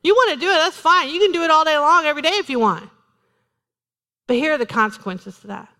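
usual speaking voice

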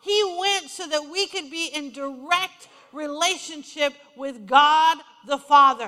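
loud preaching, building to a big finish; impassioned preaching. Real, not acted. Preaches with rising force.

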